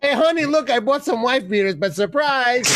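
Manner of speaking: mock cheery announcement. Acted husband greeting wife with shirts.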